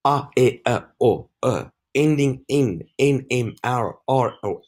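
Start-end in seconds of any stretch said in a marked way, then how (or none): 0.1-1.7 "A, E, I, O, U" as short, separate vowel sounds. Shown as a demonstration. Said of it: "words with short vowels".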